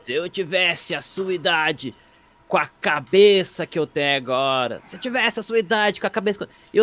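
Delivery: put-on slow, drawn-out old-timer's refrain; lightly voiced old person. Comic mocking what old people always say, lightly mimicked old person. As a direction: imitate an old person's pet phrase, stretching the words. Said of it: "O velho sempre fala".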